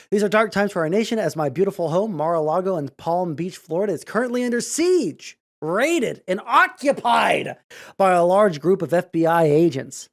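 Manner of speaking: half-hearted Trump read that slips toward Kennedy; bad Trump voice. Shown as a demonstration. Streamer reading Trump's statement in a weak Trump voice. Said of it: "I can't do a Trump voice".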